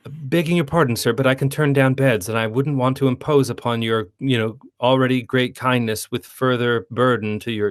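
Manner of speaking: mock-formal storybook child, lightly voiced; formal Gretel. Imitating Gretel's stiff lines for a co-host, mildly formal. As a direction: lightly put on polite, flowery old-time dialogue. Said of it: "like, sort of formal".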